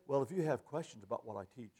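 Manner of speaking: low, soft, quick mock of a preacher plugging his book; a hint of a dismissive preacher. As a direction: brush them off like a smug author. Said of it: "Now they say".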